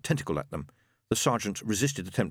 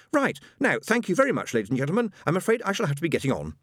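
haughty spirit guide; 8 semitones higher, faster than usual. Acted.

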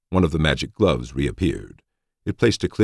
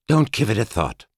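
soothing; 8 semitones higher than usual. Acted. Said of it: "she replied soothingly".

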